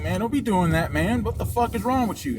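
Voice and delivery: lightly acted gym confrontation; retold scolding. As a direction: imitate an annoyed man telling someone off. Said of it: "going on with the same thing".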